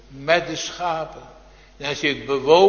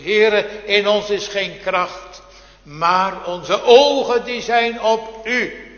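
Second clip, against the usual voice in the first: raised, louder pleading prayer, slowing at the end; king praying to God amid enemies, raised and pleading; Jozefat's prayer; 4 semitones higher, 4 dB louder, slower than usual. Retold or imitated. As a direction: lift the voice to God in need. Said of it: "riep koning Jozefat uit".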